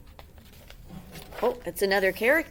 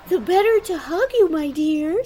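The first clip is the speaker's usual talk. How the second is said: loud, higher hammed-up wolf; menacing wolf; 9 semitones higher, 11 dB louder than usual. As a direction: purr it as the disguised wolf. The wolf speaks.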